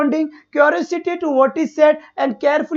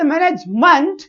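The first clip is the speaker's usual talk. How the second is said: "मैनेजमेंट" split, final मेंट pushed out and rising; intonation demo; slower than usual. Shown as a demonstration. Teacher repeating the intonation example, "मैनेजमेंट" rising on its last syllable. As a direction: set off and lift the end of "मैनेजमेंट". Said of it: "तो यही बेटा sound का intonation होता है".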